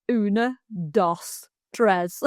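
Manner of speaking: put-on slow Spanish counting in a Stalybridge accent; imitating a Stalybridge learner's Spanish accent; broad Stalybridge accent. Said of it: "he's got a very broad accent".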